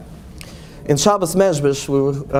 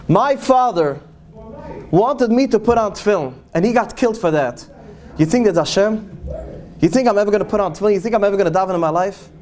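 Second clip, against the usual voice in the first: put-on raised, pained retelling of the old man's rage; bitter anguished outburst; 2 semitones higher than usual. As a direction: let the grief boil into anger, quickening on the questions. Old man bitter over father's death.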